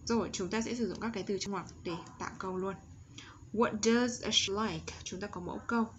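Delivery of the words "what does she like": slow, word-by-word "What does she like?"; slow model question. Shown as a demonstration. Teacher introducing a question pattern to students, slow careful model.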